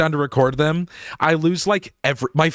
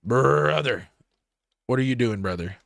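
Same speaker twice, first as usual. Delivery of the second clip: mock dismay; 2 semitones lower, 3 dB quieter than usual. Creator scolding his own dull recording voice, mock dismay. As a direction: groan it out in weary disbelief. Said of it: "And it's like".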